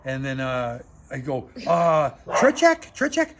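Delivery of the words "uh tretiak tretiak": hesitant, much higher and louder, drawn out slowly; nervously trying another name, much higher; nervous guess. Retold or imitated. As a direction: offer the name timidly, as a question. Nervous guess to angry man.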